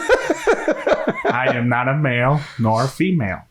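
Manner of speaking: half shout while cracking up; laughing. Real, not acted. Laughing declaration to friends.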